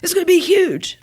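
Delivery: high mock outrage, last words near-whispered; furious dad. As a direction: imitate an angry dad fuming over the dog. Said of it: "Oh, he was furious".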